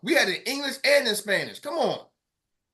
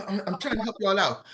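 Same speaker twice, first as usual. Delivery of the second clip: ordinary talk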